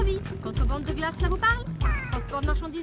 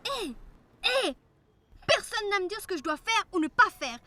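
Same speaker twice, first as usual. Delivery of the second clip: angry. Acted. Rabbit angrily answers the fox.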